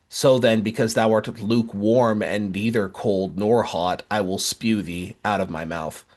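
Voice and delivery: slow, solemn scripture reading. Acted. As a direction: read it slowly, like holy writ. Reads Revelation.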